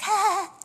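high-pitched little reenacted "ah"; high mock "ah". Wife acting out how she hid that side, high mock "ah". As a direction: act out a high, wordless reaction. Acting out her speechless reaction.

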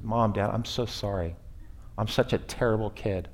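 a lightly voiced child begging, ashamed; mock pitiful child. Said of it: "all they said was".

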